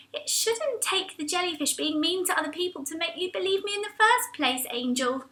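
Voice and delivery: soft, firm reproach; hurt reproach. Acted. Mac tells Angel she should have believed her, soft and firm. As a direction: gently tell her off.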